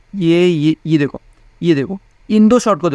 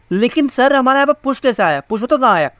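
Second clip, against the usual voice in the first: higher-pitched student interjecting with a doubt; lightly acted student objection, pitched up; questioning student; 5 semitones higher than usual. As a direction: put on a puzzled pupil querying the teacher. Teacher voices a student's doubting question.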